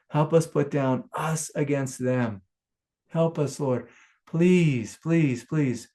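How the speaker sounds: pleading prayer. Retold or imitated. Praying for peace in Israel and Gaza, pleading. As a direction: beg the Lord for peace. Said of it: "It's like".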